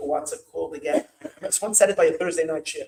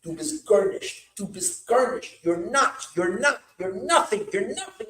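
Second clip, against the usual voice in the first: mock yell; 4 semitones higher than usual. Shown as a demonstration. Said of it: "you are gonna yell at them".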